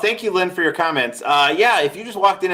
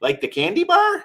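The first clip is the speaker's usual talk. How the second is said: mock clueless self. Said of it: "And I go".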